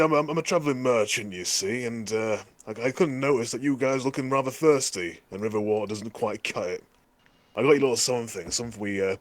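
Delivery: a lightly voiced goblin trader laying on the charm; goblin merchant pitch. Goblin player cons the camp goblins out of their loot, lightly voiced and chummy. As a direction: sell it like a shifty travelling merchant, lightly voiced. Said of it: "Then perfect goblin".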